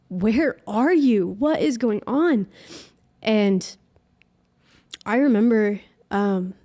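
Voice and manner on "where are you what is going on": slow, high, pleading cry to heaven. Retold or imitated. Alone on her knees calling out to God, slow and pleading. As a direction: stretch it out, begging for an answer. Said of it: "crying and just so like".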